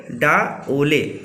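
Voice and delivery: पे ओले said very slowly, word by word; slow, with pauses. Shown as a demonstration. Teacher drilling the Kharia phrase with class, slow and paused. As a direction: space out पे and ओले for learners. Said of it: "रुक के बोलना है".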